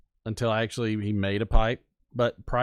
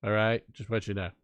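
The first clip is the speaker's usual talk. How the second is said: lightly voiced Trump, repeating "shut up" and "okay?"; mild mock Trump rally voice; Trump impersonation. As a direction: keep the Trump riff going with a hint of bluster. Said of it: "I can't do this impersonation".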